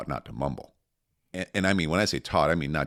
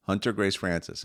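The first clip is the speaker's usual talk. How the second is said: "Hunter Grace Francis" said higher and clearly up from a mumble; saying it louder; 4 semitones higher than usual. Retold or imitated. Toddler repeats her name louder after parent asks, speaking up. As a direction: speak up so the room hears. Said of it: "can you say it a little bit louder".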